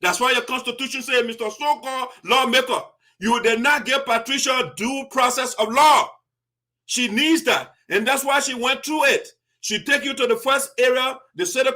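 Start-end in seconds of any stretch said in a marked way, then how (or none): 1.2-6.1 raised, accusing address; scolding. Acted. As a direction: call him out sharply. Scolding the lawmaker directly.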